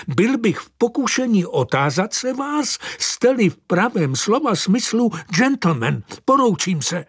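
high, indignant clerical voice; prim reproof, rising in outrage; offended bishop. A narrator's reading. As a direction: bishop rebuking the angel and leaving. Bishop rebukes the angel.

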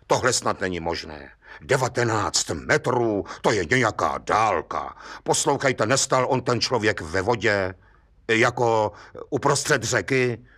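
a judge weighing the tale; lightly voiced judge, calm and doubtful. Judge answers Hejda.

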